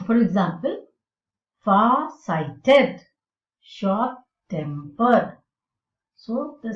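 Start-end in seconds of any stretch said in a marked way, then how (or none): 1.6-3.0 far-sighted with strong weight on SIGHTED; stress on last part. Shown as a demonstration. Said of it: "the last part is stressed". 3.6-5.4 short-tempered very slow, with TEMPERED stressed; short-TEMPERED, drawn out; stress on last part. Shown as a demonstration. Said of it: "the last part is stressed".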